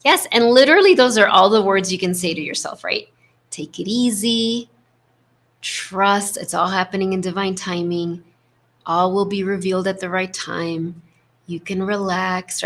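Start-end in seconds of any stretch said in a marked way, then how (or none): 3.5-12.6 gentle, unhurried reassurance with space between phrases; kind self-talk. Shown as a demonstration. Coach models mantras to share with yourself, gently reassuring. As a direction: soothe yourself, giving each phrase room. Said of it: "the tone is so important".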